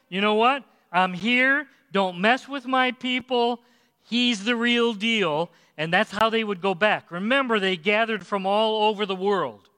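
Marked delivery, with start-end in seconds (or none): 0.1-5.5 raised, firm "don't mess with my people"; bold declaration. Acted. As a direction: declare it higher, with confidence. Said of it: "I think he's saying".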